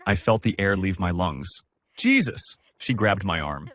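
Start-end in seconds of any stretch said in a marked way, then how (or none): 2.0-2.6 sudden high shocked exclamation; a gasped, high-pitched cry of shock; shocked outburst. A narrator's reading. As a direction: blurt it out in disbelief, pitch jumping up. Shocked at crash news.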